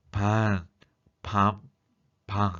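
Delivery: isolated syllables resonating against a blocked nose; nasal endings demonstrated with nose shut; nose-pinched demo. Shown as a demonstration. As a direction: hold your nose and sound out each word. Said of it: "코를 막고 소리 냈을 때".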